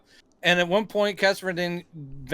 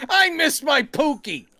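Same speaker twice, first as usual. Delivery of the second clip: mock sobbing; 9 semitones higher, slower than usual. Mock-weeping quote of a character.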